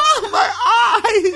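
mock-wail like a hit teen sitcom girl; hammed-up pained whine over a black eye; Marsha Brady impression. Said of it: "her Marsha Brady impersonation".

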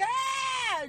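put-on high child's cry; short high wail; imitated child wail. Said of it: "he's like".

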